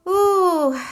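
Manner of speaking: high, loud, drawn-out ooh; heavy ooh. Real, not acted. Reader seeing a heavy spread for Scorpio, high loud ooh. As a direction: react like the cards hit hard.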